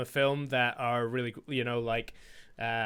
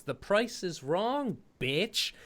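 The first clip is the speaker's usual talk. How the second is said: quoted movie line; 3 semitones higher, 5 dB quieter, slower than usual. Retold or imitated. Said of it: "obviously the quote was".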